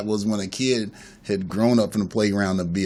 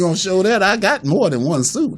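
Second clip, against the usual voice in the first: laughing; 10 semitones higher than usual. Retold or imitated. Jokes about the video.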